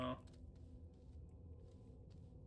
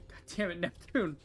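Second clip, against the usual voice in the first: louder, higher curse at the companion; angry cursing; 3 semitones higher, 5 dB louder than usual. Real, not acted. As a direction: blame him with a sharp outburst.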